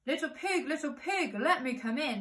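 wolf's singsong call to the pig; lightly voiced wolf calling at the door; coaxing wolf.

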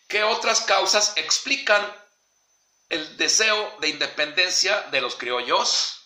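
slow, deliberate dictating pace; slow dictation. Shown as a demonstration. Teacher dictating a question to the class, slow and deliberate. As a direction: spell it out slowly for students to write. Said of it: "y vamos a preguntar".

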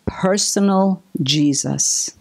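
breathy whisper, barely voiced; whispered aside. Real, not acted. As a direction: let it drop to a hushed secret. Hushed aside in sermon.

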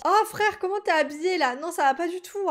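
high, loud, amused outrage; appalled reaction. Real, not acted. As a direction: exclaim at a ridiculous outfit. Appalled by a game outfit.

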